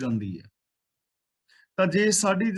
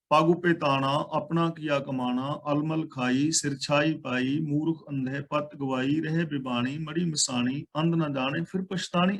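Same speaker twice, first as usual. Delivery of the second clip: scripture recitation. Acted.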